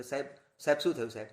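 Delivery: fast, anxious question to the guru; mock worried disciple. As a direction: hurry the words like a startled disciple. Frightened disciple asks, retold. (ગભરાયેલા શિષ્યનો ઝડપી પ્રશ્ન)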